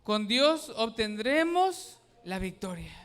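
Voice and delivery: loud, slow unison recitation; repeating with congregation. Shown as a demonstration. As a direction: say it together, firmly. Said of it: "Repítalo conmigo".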